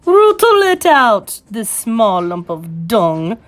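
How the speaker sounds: high, loud screech falling to slow venom; screech, then sink into slow contempt; furious witch's screech. Acted. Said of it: "screeched the Grand High Witch".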